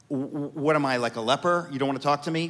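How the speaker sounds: put-on light Greek accent, wounded father; father's Greek accent. Hurt father answering his teenage son, light Greek accent. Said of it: "in my father's accent".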